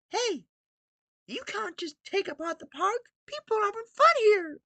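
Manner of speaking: high, eager cartoon hero calling out; Emmet voice. Protesting at Gru over the park, high heroic cartoon cry. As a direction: shout it up high like a plucky Lego hero. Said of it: "I don't know how he sounds".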